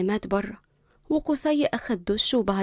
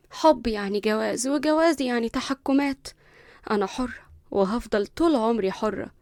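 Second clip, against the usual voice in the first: arrogant. Acted. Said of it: "اتكلمت بغرور".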